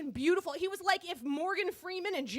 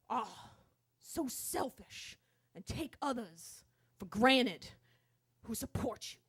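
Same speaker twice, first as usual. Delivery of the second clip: preacher voice, subdued; 3 semitones lower, slower than usual. Retold or imitated. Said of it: "continues his sermon".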